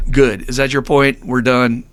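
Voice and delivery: curt mock dismissal; retold brush-off, ending it right there; giving no quarter. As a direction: shut him down in short, firm bursts. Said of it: "I was really giving him no quarter".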